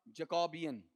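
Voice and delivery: जैकोबियन with a weakened first syllable; stress shifted forward. Shown as a demonstration. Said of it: "इसे क्या पढ़ा जाएगा".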